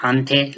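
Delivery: "Ante" said clearly, repeated; slow Amharic word demo; careful pronunciation. Shown as a demonstration. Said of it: "like this".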